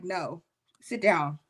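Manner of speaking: firm restraining voice. Retold or imitated. Holy Spirit holding her back from a fight, firm.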